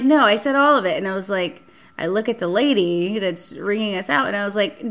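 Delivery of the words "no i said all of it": high, loud overruling; insisting. Retold or imitated. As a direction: cut her off firmly. Date overrules her at register.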